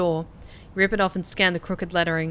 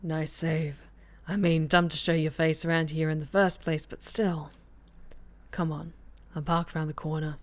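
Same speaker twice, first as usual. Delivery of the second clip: a hint of a gruff street contact, softer and lower-key; lightly voiced gravelly informant; 3 semitones lower, 4 dB quieter than usual. D'Angelo pulling the player into the shadows, lightly gruff and soft. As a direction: mutter it like a shady guy in an alley. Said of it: "the gravelly voice sure does".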